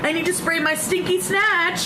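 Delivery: high, slow, mocking voice of a crude woman; sing-song it high and slow to mock her; mocking Jane. Mocking the crude girl to the camera, high and slow. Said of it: "she'll ... be like".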